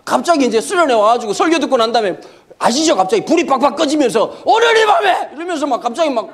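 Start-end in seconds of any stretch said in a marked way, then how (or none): 4.4-5.3 mock fervent preacher, pitched higher; revival preacher. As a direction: cry out like a retreat preacher in the dark.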